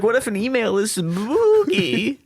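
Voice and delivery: high, slow, nervous whimper; timid scared voice. Retold or imitated. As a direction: ask it like a frightened child. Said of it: "you're like".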